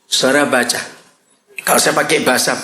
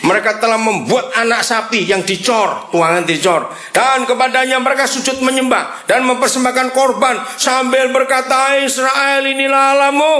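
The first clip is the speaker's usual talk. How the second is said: much higher, commanding reading of God's words; preacher reading God's command to Moses, high and commanding; dramatic scripture reading; 7 semitones higher than usual. Acted. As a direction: proclaim it like God ordering Moses down. Reads God's angry speech.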